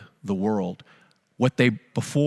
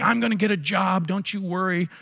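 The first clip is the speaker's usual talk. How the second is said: raised higher, dad yelling his promise; a mild mock yell, defiant and insistent; imitating a sick father shouting he'll get a job; retold yelling; 6 semitones higher than usual. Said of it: "he was yelling".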